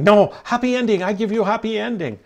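high, put-on mock Asian accent for the masseuse; hammed-up Asian masseuse accent, pitched high. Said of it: "She's like".

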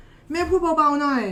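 playful hush request; nudging child. Retold or imitated. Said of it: "คนข้างๆมาสะกิดว่า".

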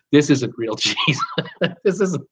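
breaking into giggles mid-sentence; cracking up. Real, not acted. Host confessing the cheese is fake to viewers, cracking up. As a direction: try to say it and lose it to laughter. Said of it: "I'm trying to say this without laughing".

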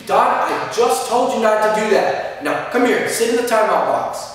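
loud, high, slow telling-off; angry scolding. Shown as a demonstration. Teacher wrongly showing anger at a child, angry scolding. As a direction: scold crossly, leaning hard on each word. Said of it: "you can't be angry. An example of what I mean".

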